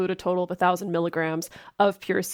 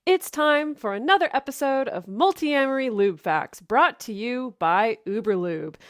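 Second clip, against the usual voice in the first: higher-pitched segment intro announcer; show announcer; 3 semitones higher than usual. Acted.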